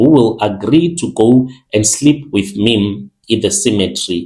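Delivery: plain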